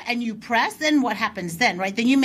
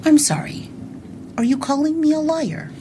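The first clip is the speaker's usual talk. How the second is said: pointed challenge; 5 semitones higher than usual. Shown as a demonstration. Repeating the coach's line to a clerk, pointed and raised. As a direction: call out the accusation with mock politeness. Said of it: "That's what he told me to say".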